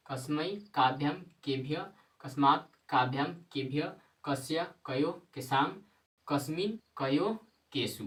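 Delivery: steady rote recitation with rising ends. Shown as a demonstration. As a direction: run through the forms again for the class. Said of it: "एक बार और देखिए". (शब्द-रूप दोहराते हुए पाठ)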